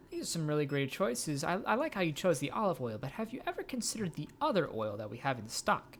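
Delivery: high, bright sales pitch voice; salesperson voice. Acted. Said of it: "time for cold calls".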